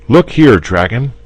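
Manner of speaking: put-on high, loud boy cutting in; jealous boy interrupting the dragon. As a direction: jump in on his friend's behalf. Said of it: "interrupted the boy".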